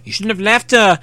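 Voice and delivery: lightly sneering villain taunt; mild sneer. Acted.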